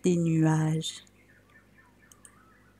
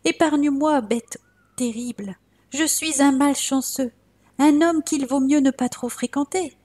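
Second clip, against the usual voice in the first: terrified pleading; 5 semitones higher than usual. Acted. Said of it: "Il fut tant effrayé".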